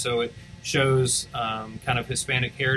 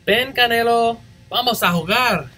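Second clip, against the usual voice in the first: higher, louder playful call; calling the dog; 8 semitones higher, 4 dB louder than usual. Acted.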